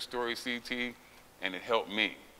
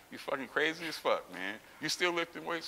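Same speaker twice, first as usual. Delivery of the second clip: higher-pitched, incredulous questioning; retold doctors' disbelief; 6 semitones higher than usual. Doctors telling the lifter they think it crazy, incredulous. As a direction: question it as if it were madness, pitch rising. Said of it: "my doctors tell me now".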